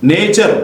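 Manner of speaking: "నేచర్" with no separate T sound; silent T. Shown as a demonstration. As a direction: say "నేచర్" with T merged into "ch". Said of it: "ఇక్కడ టీ పలకలేదు".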